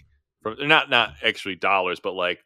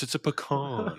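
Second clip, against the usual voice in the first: Midwestern accent; 4 semitones higher, 5 dB quieter than usual. Shown as a demonstration. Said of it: "my Midwestern accent".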